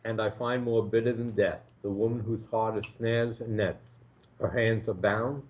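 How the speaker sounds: reading with a mouthful; mouth full. Real, not acted. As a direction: talk through a bite of food. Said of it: "Well, my mouth is full".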